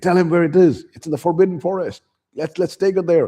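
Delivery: high, loud put-on girl's voice; mock urgent plea. Hermione urging Harry to tell Umbridge, high mock urgency. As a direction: push it high and insistent.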